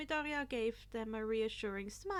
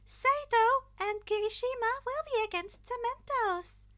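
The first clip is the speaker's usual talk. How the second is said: high, loud chirpy announcing voice; cheerful principal; 12 semitones higher, 10 dB louder than usual. A narrator's reading. Principal announcing the teams to the class, high cheerful call. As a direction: announce it like a bubbly host.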